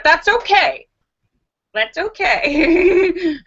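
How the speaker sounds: laughing reassurance, slowing into giggles. Real, not acted. Telling viewers talking to yourself is okay, laughing. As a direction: shrug it off with a laugh.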